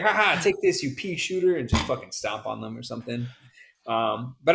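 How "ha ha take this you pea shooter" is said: higher-pitched mock-villain taunt; lightly hammed-up gloating; playful taunting. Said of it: "if you could beat Godzilla and start stomping".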